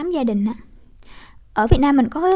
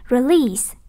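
re-LEASE, weight on the last syllable; stress on second syllable. Shown as a demonstration. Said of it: "âm hai". (nhấn âm hai của "Release")

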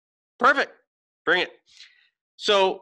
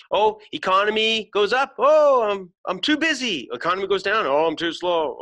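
high, mocking whine of excuses; sing-song mock complaint about the economy; mock whiny complainer; 4 semitones higher than usual. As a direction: lampoon the restless worrier. Mocks the never-satisfied complainer.

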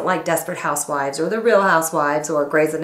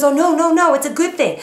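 high, louder backpedaling husband; husband insisting it's a compliment, much higher; flustered husband; 9 semitones higher, 4 dB louder than usual. Retold or imitated. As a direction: hurry to save yourself. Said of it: "He goes".

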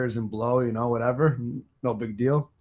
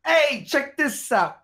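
put-on slow, higher Jewish accent; 13 semitones higher, much slower than usual. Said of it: "That's my Jewish accent".

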